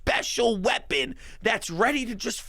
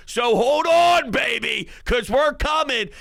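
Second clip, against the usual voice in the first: hyped shout; 4 dB louder than usual. Real, not acted. Hyped pregame call to fans.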